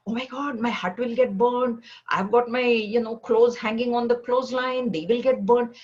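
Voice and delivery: storyteller's mock alarm over burning clothes; mock panic. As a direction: fuss like a monk fearing for his washing. Sannyasis panic over burning huts.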